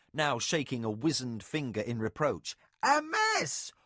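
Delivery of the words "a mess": high, loud, slow outraged cry; loud high scandalized nurse; ranting. A narrator's reading. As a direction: rant at your mistress's messy hair. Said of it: "Nakoya ranted on".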